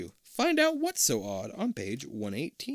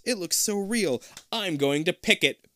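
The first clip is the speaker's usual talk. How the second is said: put-on high, eager girl voice; bright-eyed girl reaching for a rose; excited girl; 7 semitones higher than usual.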